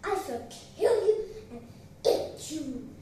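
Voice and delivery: roaring with indignant anger; angry roar. Acted. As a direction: thunder it out with heavy, emphatic threat. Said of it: "roared the lion in anger".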